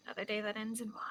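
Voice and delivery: whispered deadpan. Acted. Sighing deadpan remark.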